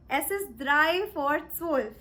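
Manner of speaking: careful, slow German; "drei vor zwölf" said slowly and clearly; slow German demo. Shown as a demonstration. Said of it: "You can simply say".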